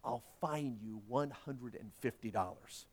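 judge speaking softly and slowly. A narrator's reading. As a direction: drop to a quiet, measured murmur. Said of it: "lowered his voice and said softly".

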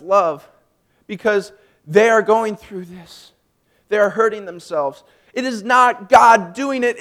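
loud, slow, weighted preaching; youth minister's answer. Retold or imitated. Youth minister telling a hurting teen of God's love, heartfelt preaching. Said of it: "this is still his answer".

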